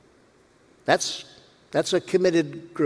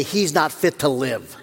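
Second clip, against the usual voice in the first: joking quote; 3 semitones lower than usual. Pretend. Preacher laughing at his own imagined congregation. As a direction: say it lightly, with a laugh and without any shout. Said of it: "raise their voices and say".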